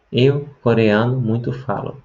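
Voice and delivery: "Eu, coreano, muito falo" said slowly, each word set apart. Shown as a demonstration. Teacher slowly spelling out Korean word order for students. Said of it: "Em coreano saiu".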